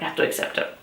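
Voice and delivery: low, very soft resigned murmur; quietly giving in, as if retold; retold resignation. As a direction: let it sink away in defeat. Grudgingly accepting a book's ending.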